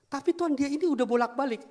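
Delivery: high, loud complaining protest; indignant protest. Acted. Pastor arguing with God about the man, indignant protest.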